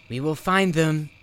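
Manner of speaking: high, loud proud vow; heroic declaration. Acted. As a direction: proclaim it like a brave hero. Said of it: "apparently fearless as he struck a heroic pose".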